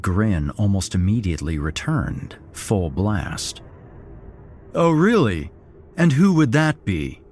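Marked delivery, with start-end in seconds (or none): 4.7-7.2 loud sarcastic sneer; a hint of demented glee; mocking taunt. A narrator's reading. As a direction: scoff at the threat. Todd mocking the threat.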